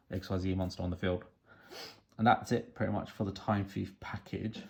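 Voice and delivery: hoarse, croaky throat. Real, not acted. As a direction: speak through a croaky voice. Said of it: "Sorry about the croaky voice".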